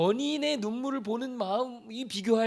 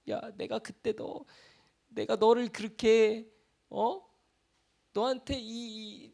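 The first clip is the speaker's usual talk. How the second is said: God pleading; 4 semitones higher than usual. Retold or imitated. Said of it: "하시지 않겠어요?".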